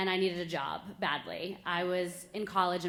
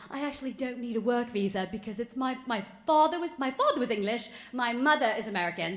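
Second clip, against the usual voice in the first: improvised story in put-on British; mock-English explanation, stumbling over the words; fake British accent; 4 semitones higher than usual. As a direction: make it up in a badly faked British accent. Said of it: "it goes on like that".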